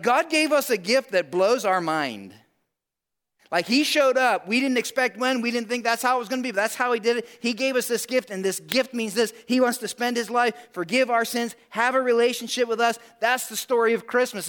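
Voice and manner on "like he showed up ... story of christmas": raised, emphatic pulpit proclamation; fervent preaching. Acted. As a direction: preach it with building fervour, leaning on key words. Preaches Christmas gift with fervour.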